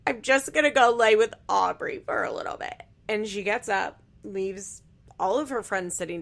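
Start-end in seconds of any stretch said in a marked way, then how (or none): 0.1-2.8 higher, louder imitation of tearful talk; hammed-up weepy announcement; mock crying. Host imitating crying woman leaving her friends, mock crying. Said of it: "She's crying, and she's like".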